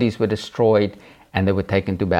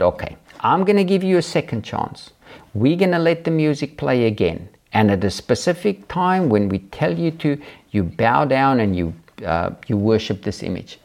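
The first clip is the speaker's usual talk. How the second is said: commanding king; 3 semitones higher than usual. Retold or imitated. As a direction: play the king, imperious and raised. King gives second chance.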